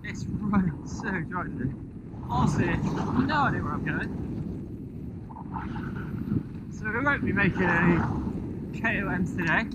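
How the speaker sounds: put-on light West Country accent; a touch of West Country twang. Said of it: "In a West Country accent".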